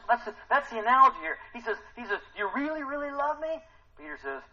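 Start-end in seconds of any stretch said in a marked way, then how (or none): 2.4-3.6 high question broken by a laugh. Acted. Jesus asking Peter, amused and laughing. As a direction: ask it through a chuckle.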